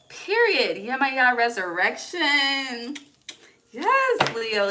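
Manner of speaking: loud, high thrilled exclaiming; excited outburst. Real, not acted. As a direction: burst out in real excitement. Excited reading confirmation.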